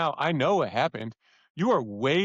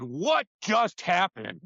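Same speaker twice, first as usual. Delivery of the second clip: retold stunned disbelief; 4 semitones higher, much slower than usual. Coach amazed, retold.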